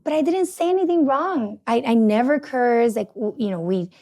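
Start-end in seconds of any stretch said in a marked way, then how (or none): 0.0-3.0 higher-pitched protest of innocence; defensive protest. Retold or imitated. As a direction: plead your case, mildly indignant. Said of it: "he still feels disrespected sometimes, and I'm like".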